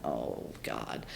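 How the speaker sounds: weary groan. Retold or imitated. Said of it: "I went".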